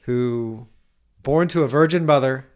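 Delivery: hushed, slowing bible-story voice; mock nativity storytelling. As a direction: tell it like a Christmas pageant.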